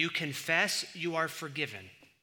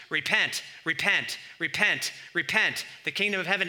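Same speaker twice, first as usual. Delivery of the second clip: a touch of a street preacher; 3 semitones higher, 5 dB louder than usual. Retold or imitated. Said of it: "or preachers".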